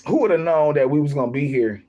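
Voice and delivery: talking through a burp; words pushed out around a burp. Real, not acted. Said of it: "I'm burping and stuff like that".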